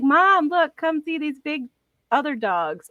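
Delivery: high, eager puppy voice; the dog begging mom to see the horses; dog pleading to its owner, high; excited dog voice. Pretend. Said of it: "he's like".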